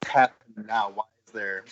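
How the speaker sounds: choppy call audio, dropping out; crackly connection cutting in and out; fading in and out. Real, not acted. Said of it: "You're fading in and out pretty hard".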